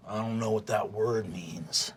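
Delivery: a dull half-orc's mumble; dim bully. Acted. GM voices Rog's blunt reply.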